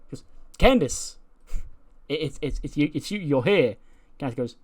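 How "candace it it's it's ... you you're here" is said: startled surprise. Retold or imitated. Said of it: "startles her".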